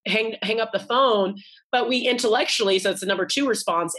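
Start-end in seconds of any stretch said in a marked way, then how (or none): 0.0-0.8 mock frustration. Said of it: "we're like".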